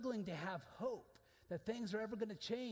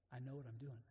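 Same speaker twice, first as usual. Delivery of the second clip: quiet reassurance; 7 semitones lower, 5 dB quieter, faster than usual. Acted. Heard in the quietness.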